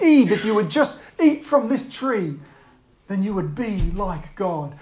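a hint of the serpent's persuasion; lightly voiced tempter. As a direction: gently tempt with a promise.

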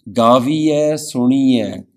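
slow, measured chanting read; slow devotional recitation. Shown as a demonstration. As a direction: intone the words slowly. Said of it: "recites scripture".

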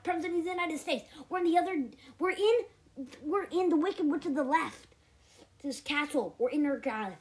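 lightly voiced bobcat president. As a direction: play a pompous president calling for help. Bob the Bobcat calls as President.

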